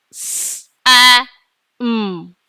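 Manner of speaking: S, A, M each said apart, with pauses; sounding out letters. Shown as a demonstration. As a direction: say S, A, M one letter at a time. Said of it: "Let's say the sounds".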